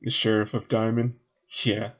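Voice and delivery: folksy grumble, lightly Southern; lightly voiced local. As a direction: complain about the windbag in a light Southern voice. Game master voices Southern character.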